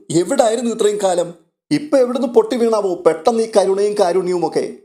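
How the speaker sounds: mild astonishment that builds; amazed. Acted. Krishnaja tells Aleena about Babitha's orders, amazed. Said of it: "അതിശയഭാവത്തോടു കൂടി പറയുകയാ".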